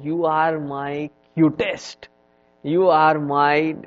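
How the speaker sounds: slow, fond cooing; doting mother. Retold or imitated. Mother embracing her dirty kid, slow and tender. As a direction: coo over the muddy child. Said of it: "he said".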